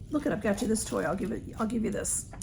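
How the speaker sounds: gently coaxing the cat; quiet, cooing pet talk; soft voice to a pet. Real, not acted. Offering the cat a toy.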